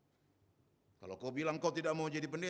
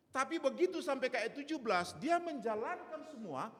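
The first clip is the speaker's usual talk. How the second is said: full-force preaching; 7 semitones higher, 4 dB louder than usual. Acted. Pastor preaching from the pulpit.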